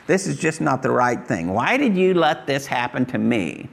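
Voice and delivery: a hint of whiny self-pity; mock bitter complaint. Pastor mimics a bitter believer, lightly whining. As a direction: play the wronged churchgoer lightly. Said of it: "it's like".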